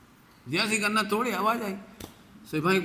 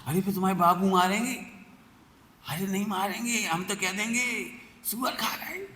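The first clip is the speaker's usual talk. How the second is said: lightly voiced girl; 6 semitones higher than usual.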